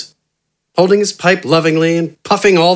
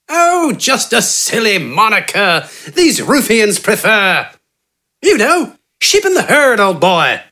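high, genteel, self-assured bargaining voice; eccentric doctor Wither; 6 semitones higher than usual. A narrator's reading. Wither smoothly bargaining with Gafgarn for his help. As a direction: purr the offer like a smug English gentleman.

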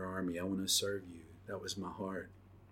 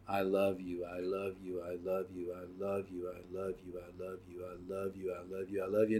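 fading prayer; 2 semitones lower, 8 dB quieter than usual. Retold or imitated. Face down praying to God.

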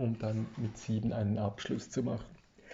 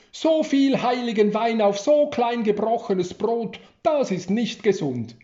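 playful scolding; 10 semitones higher, 9 dB louder than usual. Acted. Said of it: "kicherte es durch die Kirche".

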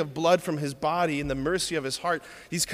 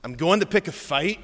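mock Scottish accent, measured defiance; lightly hammed Scottish rebel; William Wallace. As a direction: say it in a playful Scottish brogue. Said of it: "It's a pretty good Scottish accent".

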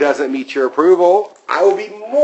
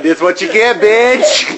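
mock yelling; 7 semitones higher, 4 dB louder, slower than usual. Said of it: "yelling things at her".

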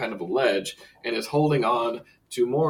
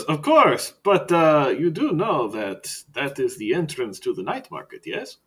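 a hint of a theatrical vampire; a vampire asking with a knowing air; lightly voiced vampire; 3 semitones higher than usual. Skurlock voice continues.

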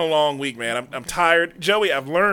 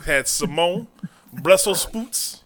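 weird mock-Southern accent, words drawn out; exaggerated Southern American food accent; put-on Southern American accent; slower than usual. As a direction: affect a showy Southern accent on each dish. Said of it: "some weird fucking accent".

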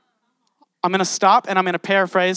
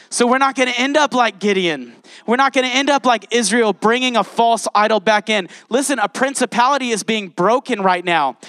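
rousing preaching; 3 semitones higher than usual. Real, not acted. Rousing congregation at sermon's end.

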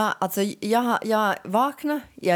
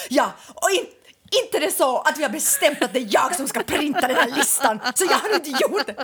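mock angry; 5 semitones higher than usual. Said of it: "du är så här".

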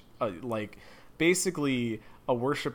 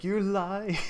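Corypheus voice; 9 semitones higher, 4 dB louder than usual. Retold or imitated. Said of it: "He's like".

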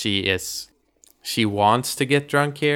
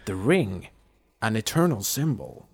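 softer, long-winded priest sermon; droning priest; 6 dB quieter than usual. Retold or imitated. Priest still going on about the ring, droning. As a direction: intone it solemnly like a priest. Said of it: "it just goes on and on".

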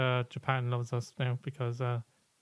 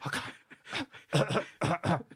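mock dazed medium; 8 semitones higher, much slower than usual. Derek waking from possession, mildly hammed-up daze. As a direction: come round dazed after the possession. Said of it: "Derek Acorah going".

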